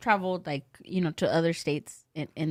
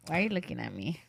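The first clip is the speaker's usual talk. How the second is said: soft, lower mock unease; hushed, uncomfortable inner voice; uneasy aside; 3 semitones lower, 9 dB quieter, faster than usual. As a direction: quietly voice a creeped-out thought. Voicing eerie feeling of being stared at.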